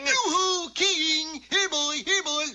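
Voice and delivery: high, loud sing-song calling. Acted. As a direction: call out across the room like calling a dog. Calling out in the theater.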